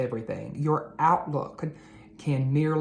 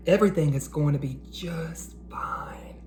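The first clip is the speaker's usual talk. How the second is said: whisper. Acted. Larry comforts nervous Stanley in a reassuring whisper. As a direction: whisper it to calm a scared friend. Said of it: "Larry whispered".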